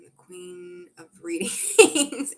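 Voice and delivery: slow, loud, stretched royal announcement; grand proclamation. Pretend. Reader proclaims a viewer's praise loudly and slowly. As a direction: crown herself with the words. Reads viewer's flattering comment.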